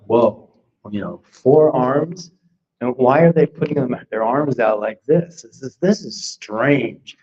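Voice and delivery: mildly baffled by a strange picture; puzzled wonder. Retold or imitated.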